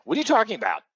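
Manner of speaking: high-pitched, incredulous imitation of her; disbelieving mock outburst; freaking out. Wife hearing the guest's name, freaking out. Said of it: "she's freaking out".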